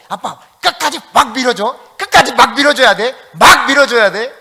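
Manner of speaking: put-on demanding child. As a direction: whine it out like a kid begging dad to push. Child on bike demanding a push. (아빠한테 조르는 아이, 높고 큰 소리로)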